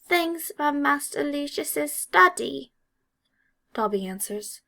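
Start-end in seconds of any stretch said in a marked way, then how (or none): 0.1-2.7 high, slow faltering elf voice; nervous elf pause; hesitant elf. A narrator's reading. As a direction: falter mid-sentence as the elf. Elf reveals secret.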